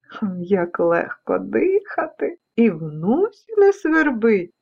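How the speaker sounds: slow, savouring storybook voice; leisurely contented relief; relieved cactus. Acted. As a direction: breathe easy, unhurried. Cactus relieved at clean air.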